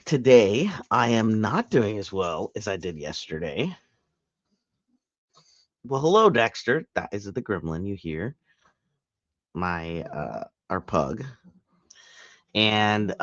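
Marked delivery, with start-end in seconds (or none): 5.8-6.9 higher-pitched hello to a dog; pet-directed greeting. Real, not acted. Greeting the pug, pet-directed voice.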